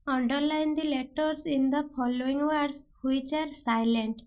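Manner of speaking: very slow, word by word; slow question read. Shown as a demonstration. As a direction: dictate the exam question slowly. Teacher reads exam question aloud.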